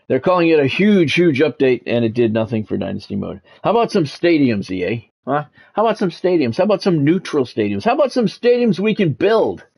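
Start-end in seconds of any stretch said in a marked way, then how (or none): 3.6-9.7 rising exasperation, each ask pitched higher than the last; exasperated demand. Real, not acted. Gamer ranting at EA over missing stadiums, rising exasperation. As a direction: pile up the demands at EA, climbing in pitch.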